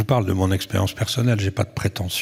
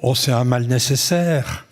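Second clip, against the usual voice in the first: quoted objectors, higher-pitched sighing protests; mayors' dismissive objections; 3 semitones higher than usual. Retold or imitated. Small-town mayors brushing off the development council, mock-dismissive. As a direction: imitate skeptical mayors brushing it off. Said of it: "euh, on me dit".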